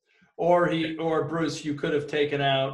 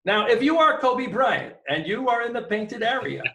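high, loud coach lecture voice; Hubie Brown impression; 8 semitones higher, 5 dB louder than usual. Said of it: "my Hubie Brown impression".

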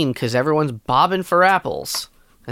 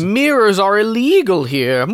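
wild unhinged ranting; 5 semitones higher, 4 dB louder than usual. Pretend. Mock vampire voices.

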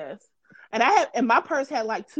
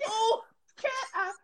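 high, wheezing laugh breaking up the words; can barely get it out for laughing; laughing so hard it's near crying; 11 semitones higher, 5 dB quieter than usual. Real, not acted. Teasing Kat about the purse search, crying with laughter. Cracking up over the Popeyes story.

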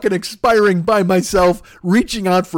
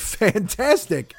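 sarcastic drawl; 2 semitones higher, 5 dB quieter, much slower than usual. Retold or imitated. Sarcastic reply to anniversary.

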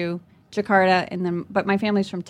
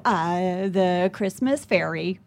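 caught off guard; 3 semitones lower, much slower than usual. Retold or imitated. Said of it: "I was deer in headlights".

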